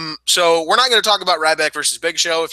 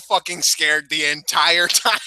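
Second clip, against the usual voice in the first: laughing tease; 3 semitones higher than usual. Real, not acted. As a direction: rib him while laughing. Teasing cohost, laughing.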